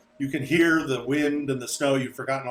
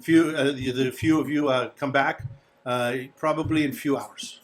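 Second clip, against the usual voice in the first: a hint of an earnest foreign host; lightly voiced innkeeper, earnest; 3 semitones higher than usual. Innkeeper to departing guests, mildly earnest farewell. Plays Darovich seeing the guests off.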